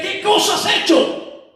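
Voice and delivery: climactic, very high-pitched reproach; high accusing cry. Acted. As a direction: confront him at the top of your register. Sage confronts the accuser. (reproche exaltado y agudo)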